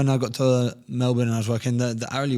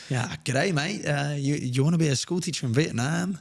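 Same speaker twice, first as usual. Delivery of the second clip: put-on lightly done Australian accent of an old bloke; a modest stab at an Australian accent, a bit higher; 3 semitones higher than usual. Old Australian guy pitching a teaching job, light Australian accent. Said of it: "I'm gonna try and do an Australian accent".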